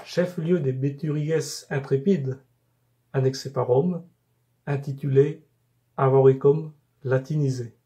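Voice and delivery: measured poem reading, phrase by phrase with pauses; poem recitation. Acted. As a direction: recite it in even, carefully articulated cadences. Récite son poème sur Bourges. (récitation de poème, posée et rythmée)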